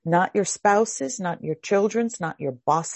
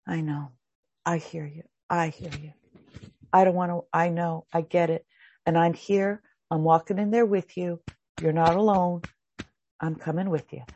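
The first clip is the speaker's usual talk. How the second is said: comforting reassurance; 3 semitones lower, 3 dB quieter than usual. Shown as a demonstration. Comforting reply to scared self.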